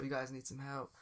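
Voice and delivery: soft, calm attendant; really calm. Acted. Man in suit offering help to drivers, really calm. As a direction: quietly offer help, unruffled. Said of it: "really calm and so".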